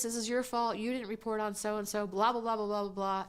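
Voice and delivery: retold yelling, trailing into blahs; mock angry screaming. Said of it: "screaming at me on the phone".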